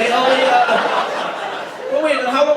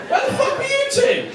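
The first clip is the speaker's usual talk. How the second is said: much higher, laughing call to latecomers; high mock outrage. Real, not acted. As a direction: squeal it at the late couple. Calling out latecomers.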